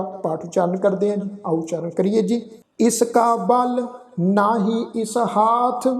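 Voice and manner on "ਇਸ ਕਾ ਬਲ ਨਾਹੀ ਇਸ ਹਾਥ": slow, measured Gurbani reading; scripture recitation. Shown as a demonstration. Teacher recites verse for congregation, slow sustained recitation. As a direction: draw out the line endings, pausing between phrases.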